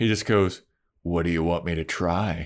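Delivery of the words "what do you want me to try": calm, unconcerned, not panicked at all. Retelling a scene where Oz is choked against a wall: imitating Oz, calm with no panic. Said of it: "there's no panic in his voice".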